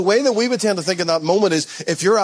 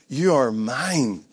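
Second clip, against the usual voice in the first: tender Father's voice; 3 semitones lower, much slower than usual. Acted. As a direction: say it gently and slowly, as a father reassuring his child. Voicing the Father's words.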